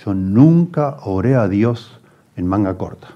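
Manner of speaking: mildly imitating a proud churchgoer; lightly mock self-righteous declaration, slowing down. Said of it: "toda orgullosa".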